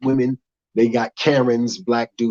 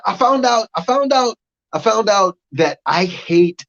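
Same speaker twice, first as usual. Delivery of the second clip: squeaky build-up; 7 semitones higher, 4 dB louder than usual. Acted. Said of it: "comic build-up".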